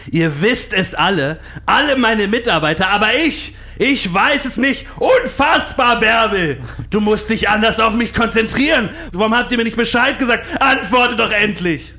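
screaming in a high-pitched fury; berserk rage. Acted. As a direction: rant at the staff, loud and high. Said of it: "er flippt da komplett aus".

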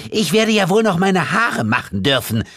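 high, shrieked protest; indignant yell. A narrator's reading. Woman yelling after her man on the stairs, indignant. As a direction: yell it after him, pitch way up. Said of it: "schrie sie dem Mann hinterher".

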